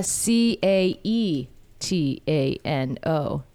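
slow letter-by-letter spelling. Shown as a demonstration. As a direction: spell each letter slowly and clearly. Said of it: "you're gonna have to spell that for us".

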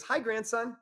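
put-on high, sweet old grandma voice; grandma's greeting. Psychic channels grandma greeting her grandson, high imitated grandma voice. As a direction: greet him the way his late grandma used to. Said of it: "She said it just like that".

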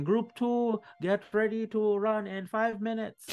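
high barking guard calling out orders; high-pitched guard yelling across the plaza; shouting guard. Acted. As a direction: call out the order like a harried guard.

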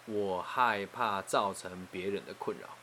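slow, word-by-word retold admission; measured, careful quote of a fear; hesitant confession. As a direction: confess the worry slowly and deliberately. Retold confession of deepest worry.

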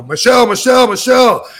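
imitating a man yelling a name, high and loud; retold scream. Husband yelling at his wife to stop her, mock scream. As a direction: holler the name urgently, as in a retelling. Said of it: "starts screaming at her".

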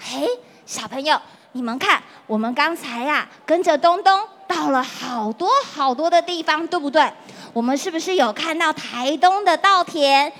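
put-on lilting, friendly voice for kids; reading to a toddler. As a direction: talk to little children warmly. Teacher addresses little children. (给小朋友讲故事的语气)

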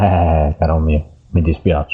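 muffled mic, like talking underwater. Real, not acted. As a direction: speak through a scarf-covered mic. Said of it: "stai parlando sott'acqua". (voce ovattata, come sott'acqua)

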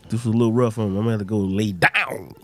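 sick, raspy voice. Real, not acted. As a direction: talk through a raspy sore throat. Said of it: "the raspy voice".

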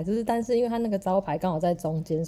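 ordinary delivery

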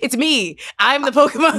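high, loud comic outburst; mock protest. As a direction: protest in hammed-up exasperation. Acted protest to Pokemon players.

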